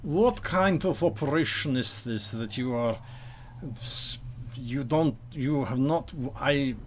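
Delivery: lightly voiced grumbling hobgoblin; a hint of a stammering brute. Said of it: "says the hobgoblin as he looks at Sanballat".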